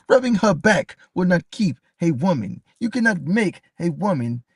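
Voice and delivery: a hint of the old lady's forceful accent; imitating the old lady. Streamer repeats the caller lady's advice in a mild mock voice. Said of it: "people got they accents and shit".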